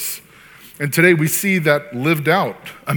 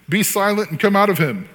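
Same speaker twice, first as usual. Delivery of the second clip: raised-pitch acted rebuke; powerful command; 7 semitones higher, 4 dB louder than usual. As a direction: order the spirit out firmly. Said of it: "that kind of powerful word".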